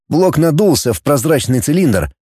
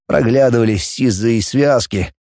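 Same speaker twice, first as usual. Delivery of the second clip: plain reading voice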